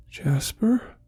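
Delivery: whispered, unsure question; frightened whisper. Acted. Simon finding the empty harness, scared whispered question. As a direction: barely breathe the name, scared. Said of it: "he whispered, his voice shaking".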